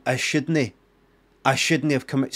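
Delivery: "I shouldn't" as uh-SHOOD-nie; imitated pronunciation. Repeating the actor's line, "I shouldn't" said as uh-shoodnie. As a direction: echo the clip, "I shouldn't" with a small "uh" up front. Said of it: "sounds like he's saying".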